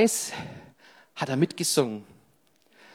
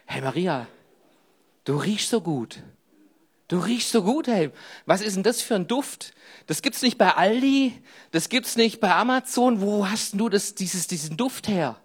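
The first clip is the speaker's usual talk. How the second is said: lightly voiced amazed neighbour; a touch of nosy admiration; curious passerby voice; 4 semitones higher than usual. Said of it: "da fragten überall die Leute".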